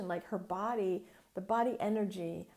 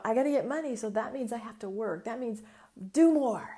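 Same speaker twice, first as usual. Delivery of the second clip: mock frantic; 6 dB louder than usual. Mock hustle inner voice.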